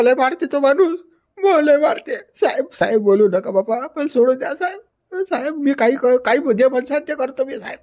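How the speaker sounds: high, pleading whine to the officer; begging for mercy. Acted. Man pleading with police not to beat him, panicky whine. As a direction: beg the cop not to hit you.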